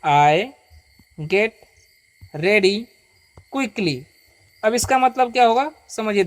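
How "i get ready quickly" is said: one word at a time, long pauses between; read-along model. Shown as a demonstration. Teacher leads students to read along, slow word by word. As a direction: stretch each word for repeating. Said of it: "पढ़िए".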